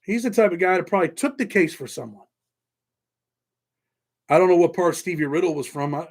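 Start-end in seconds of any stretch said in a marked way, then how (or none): 0.0-2.2 mocking another YouTuber. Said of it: "And he's like".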